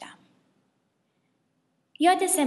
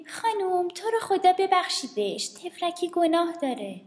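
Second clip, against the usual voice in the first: pleading; 7 semitones higher than usual. Acted. Classmate begging teacher.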